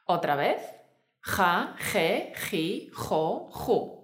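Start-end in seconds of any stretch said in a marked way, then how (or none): 1.2-4.0 Ja, je, ji, jo, ju, each with a rasped J; exaggerated Spanish J. Shown as a demonstration. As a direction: drill Ja, je, ji, jo, ju with heavy throat friction. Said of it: "te animamos a que la exageres mucho".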